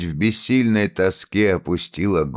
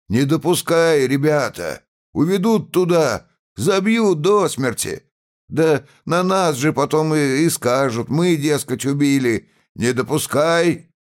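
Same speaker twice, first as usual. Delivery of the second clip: rousing shout; 9 semitones higher than usual. A narrator's reading. Peasant rouses crowd.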